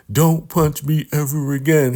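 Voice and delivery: high, whiny mock plea after a punch; whiny victim. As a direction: play it as a hurt, put-upon whimper. River whines after being punched.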